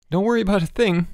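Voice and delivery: high, nervous reassurance; gulped. A narrator's reading. Boots reassuring the stranded boy, gulping. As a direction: reassure with a nervous lift in pitch. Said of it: "gulped Boots".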